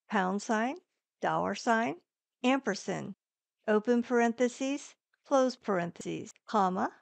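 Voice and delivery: clipped one-word commands to the mic; dictating. Shown as a demonstration. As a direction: read each symbol name distinctly. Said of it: "characters that you can speak".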